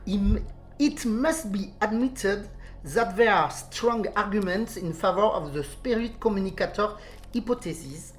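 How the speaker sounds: careful English read with a French accent. Real, not acted. Host reading the English quote for listeners, French-accented English. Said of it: "alors je vais le faire en anglais".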